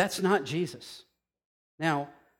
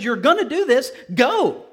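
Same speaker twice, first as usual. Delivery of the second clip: loud, higher, firm order; commanding Jesus; 6 semitones higher, 7 dB louder than usual. Retold or imitated. Jesus orders Paul, loud commanding voice. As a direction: command with full authority.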